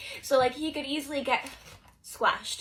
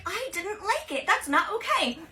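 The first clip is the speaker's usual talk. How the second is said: put-on upset girl; 8 semitones higher than usual. Girl rebuts crush.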